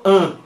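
"n" as a nasal vowel hum; nasal sound. Shown as a demonstration. Teacher shows Spanish speakers a sound they lack, nasal "n". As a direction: let "n" resonate through the nose. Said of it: "ustedes en español no tienen el sonido".

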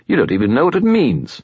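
high scornful spirit voice; Bob skull voice. A narrator's reading. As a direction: scoff like a know-it-all skull.

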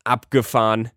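put-on a boy delighted by his first flight; excited call. A narrator's reading. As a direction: shout out the fun of it. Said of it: "ruft er".

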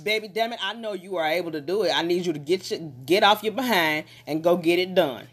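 firm push with love behind it; no sugarcoating, tell them to move; stern. Retold or imitated. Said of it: "in the same stern voice".

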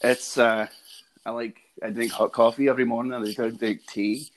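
lightly done Scottish accent; casual, slightly hesitant Scottish lilt. Shown as a demonstration. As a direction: try out a Scottish accent on request. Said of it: "talk to them in a Scottish accent".

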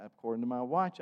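normal talking voice

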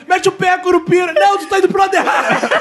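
shouting. Acted. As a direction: yell it across the forest. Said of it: "aquela cena clássica assim".

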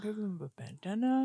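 talking while eating cookies; mouth full. Real, not acted. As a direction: say it around a mouthful. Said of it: "Excuse my talking with my mouth full".

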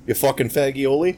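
hammed-up New York accent; bad New York accent. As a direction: toss out a question in fake New York. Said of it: "do the shitty New York accent".

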